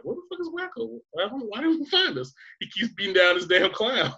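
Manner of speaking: squeaky high cartoon voice; high toon voice; cartoon kid voice. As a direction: play Yakko and Dot puzzled. Yakko and Dot quoted, high.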